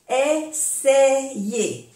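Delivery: "Essayer" drawn out as e-se-ye; AY pronounced E. Shown as a demonstration. Teacher showing the E sound, "Essayer" syllable by syllable. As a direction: separate "Essayer" into e-se-ye. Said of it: "se pronuncia E".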